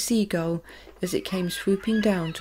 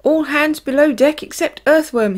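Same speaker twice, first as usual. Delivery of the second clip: loud, higher command; ordering; 7 semitones higher, 8 dB louder than usual. A narrator's reading. James orders all hands below deck, loud. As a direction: give the order with authority. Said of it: "he ordered".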